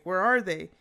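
loud, urgent imitation of a caller; frantic. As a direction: demand help in mild mock panic. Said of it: "sounds even more pract-, uh, frantic now".

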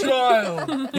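long, loud, high mock holler; megaphone-style yell. Imitating staff with a megaphone at a kid, mock bellowing. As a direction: blast the word out, stretched long. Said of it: "like, megaphones and".

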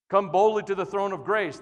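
bold proclamation. Retold or imitated. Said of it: "That's how the writer of Hebrews said it".

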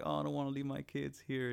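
high, whiny put-on voice; whiny parent. A clingy parent at kindergarten drop-off, high and whiny. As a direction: fret and whine about letting go. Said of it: "'cause you know when kids like".

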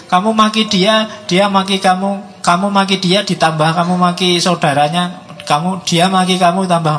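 escalating insults. Retold or imitated. Lecturer acting out two people trading insults, rising loud. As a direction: pile it on as each side hits back harder.

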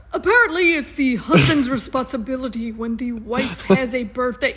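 mock training video. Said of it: "You sound like you're doing".

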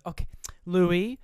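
lightly acted grandmother calling out, rising at the end. Grandmother calling to her grandson, lightly acted.

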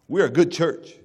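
chuckling through a smug claim; laughing boast. Retold or imitated. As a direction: laugh it off, half mocking.

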